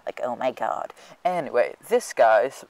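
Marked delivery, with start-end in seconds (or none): 0.1-0.9 dopey guy voice. Retold or imitated. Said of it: "he always talked about his fish. He was like".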